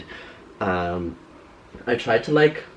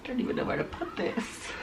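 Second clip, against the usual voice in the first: whisper; 12 semitones higher, 11 dB quieter than usual. Real, not acted. Muttered aside while sorting clutter.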